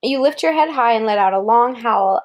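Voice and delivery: even picture-book read-aloud; reading to a child. Acted. Parent reading a wolf book to Kara, storybook voice. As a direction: read it clearly to a small listener.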